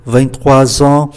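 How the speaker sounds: slow "Vingt-trois ans" linked with a z before ans; liaison. Shown as a demonstration. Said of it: "Chúng ta đọc nối ạ". ("Vingt-trois ans" đọc chậm, nối âm z)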